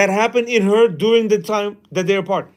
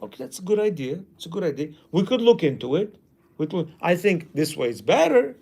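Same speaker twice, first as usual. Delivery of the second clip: gentle agreeing. Shown as a demonstration. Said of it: "we have to at least talk".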